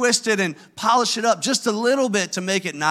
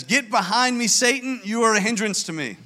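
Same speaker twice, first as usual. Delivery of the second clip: higher-pitched, firm quoted rebuke; emphatic retold rebuke; 3 semitones higher than usual. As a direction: retell it as an emphatic reprimand. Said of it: "emphatic in his rebuke back to".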